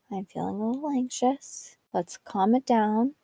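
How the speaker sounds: calm yourself down under your breath; whispered self-talk. Shown as a demonstration. Talking herself down in the grocery store, softly murmured. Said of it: "I'll whisper to myself".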